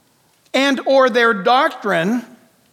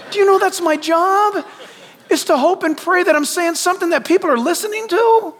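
laughing; 7 semitones higher than usual. Real, not acted. Laughing, higher and amused.

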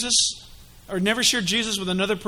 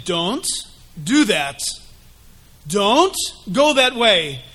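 gentle warning; 2 semitones lower, 4 dB louder, much slower than usual. Acted. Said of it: "the Holy Spirit was saying".

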